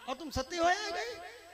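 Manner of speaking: slow, amused question with a laugh; laughing disbelief. Acted. Subhadra laughs that the wife went sati with her husband alive. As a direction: laugh at the absurd news.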